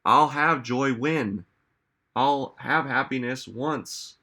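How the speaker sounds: slow, drawn-out mock wishing; conditional longing. Coach mimics people putting conditions on joy, drawn-out conditional longing. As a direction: stretch it out, dangling the condition. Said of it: "you hear the tone".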